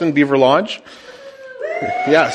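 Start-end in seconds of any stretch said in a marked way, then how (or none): 1.8-2.3 sudden high joyful shout; excited yes. Real, not acted. Celebrating the house sale.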